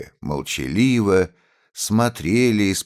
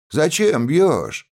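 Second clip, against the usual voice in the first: shouted protest; 9 semitones higher, slower than usual. A narrator's reading. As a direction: back up the first voice with a yell. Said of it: "поддержал другой голос".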